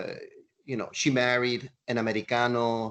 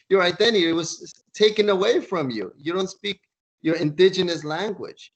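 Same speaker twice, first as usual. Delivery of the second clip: higher, louder scolding speech; indignant lecture; 6 semitones higher, 5 dB louder than usual. Retold or imitated. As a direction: tell them off, rising heat. Johnston lectures the mocking Marines.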